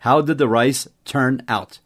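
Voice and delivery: slow, careful English model line; slow model sentence. Shown as a demonstration. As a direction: spell it out slowly for the learner. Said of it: "Como que o arroz turned out?". (frase modelo lenta e clara)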